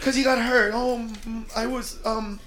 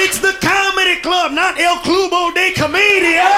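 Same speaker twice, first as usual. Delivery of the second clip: higher, indignant mock complaint; irked audience member; 4 semitones higher than usual. White audience member grumbles about Spanish at the club, indignant. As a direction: stretch out the words, put-upon and exasperated.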